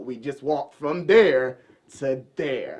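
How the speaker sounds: we just walked from there, dragged slowly; slow emphasis. Shown as a demonstration. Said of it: "it felt like it was".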